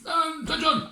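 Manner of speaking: very high, loud barked command; shouted order. Acted. General calling his soldiers to attention, loud and high. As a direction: bark it at the troops.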